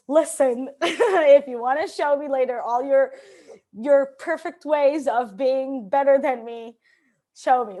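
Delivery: loud, laughing mock challenge; mock confrontational. Speaker jokingly replays her answer to a heckling attendee, mock confrontational. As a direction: throw down a sarcastic dare, pushing the volume. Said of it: "no, I said it nicer".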